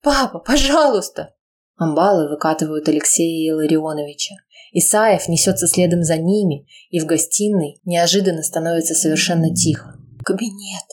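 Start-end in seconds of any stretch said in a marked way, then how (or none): 0.0-1.3 high desperate plea; pleading. Acted. Daughter pleading with her father, desperate. 10.2-10.8 soft wheezed single word; hoarse wheeze. Acted. Wounded mother wheezing to her daughter, hoarse. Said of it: "сипит Ольга Владимировна".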